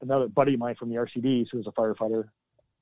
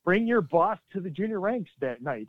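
higher, mock-cheery invite; sarcastic mock announcement; 6 semitones higher than usual. Mocking the junior ranks party invite, sarcastic. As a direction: parody the cheerful base notice. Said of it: "You know, it's".

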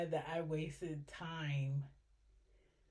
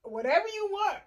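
voice of God; 2 semitones higher, 3 dB louder, faster than usual. Retold or imitated. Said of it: "God is like".

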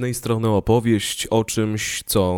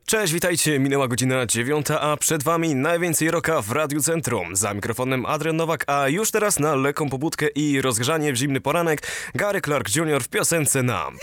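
speech synthesizer. Retold or imitated. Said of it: "Syntezator mowy Adrian".

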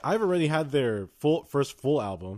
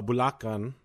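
Filipino accent. Shown as a demonstration. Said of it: "You like my, the, my Filipino accent".

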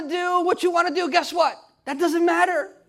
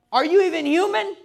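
incredulous; 4 semitones higher, faster than usual. Acted. Incredulous aside.

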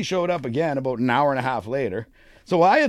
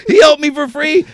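higher, louder, laughing protest; 11 semitones higher, 8 dB louder than usual. Real, not acted. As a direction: laugh it off, insisting. Laughing denial to teasing.

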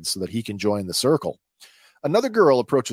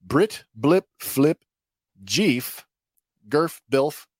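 made-up names blurted in higher bursts; 5 semitones higher, 4 dB louder, much slower than usual. Acted. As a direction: blurt each name out, higher and separate. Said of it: "And she blurts out".

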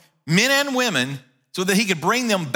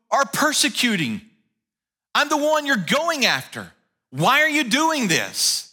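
a hint of a solemn Jesus, pitched up; 4 semitones higher than usual. Jesus answers Saul on the road.

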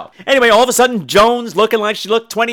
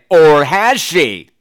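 teasing suspense; 2 semitones lower, 4 dB louder, much slower than usual. Acted. Teasing plot question.

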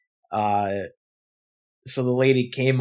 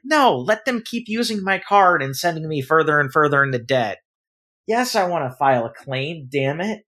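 sarcastic outburst; 5 semitones higher than usual. Retold or imitated. Answering the bank teller, higher exasperated sarcasm. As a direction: sneer the no, then snap the yes.

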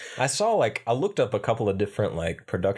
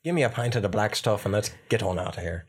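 put-on pub Irishman's accent; Irish accent; 3 semitones lower than usual. Lad ordering the black stuff, Irish accent. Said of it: "the faster Irish accent".

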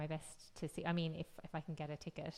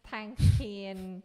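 laughing through the thanks; 2 semitones higher, 12 dB louder than usual. Real, not acted.

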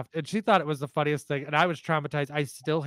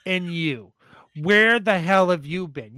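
louder, higher gruff grandpa scold; mock scolding; 3 semitones higher, 7 dB louder, slower than usual. Grandpa scolds granddaughter for not visiting, mock gruff. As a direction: demand where she's been.

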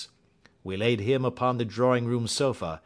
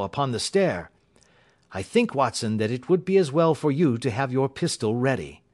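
Holmes, urgent warning; 4 semitones higher than usual. Acted. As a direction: warn your companion to be ready. Holmes warns Watson of danger.

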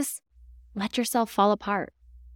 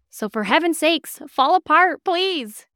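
pleading urge; 6 semitones higher, 5 dB louder, slower than usual. Real, not acted. Urging listeners.

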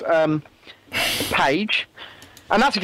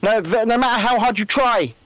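very serious; 3 semitones higher than usual. Retold or imitated. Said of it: "Very serious".

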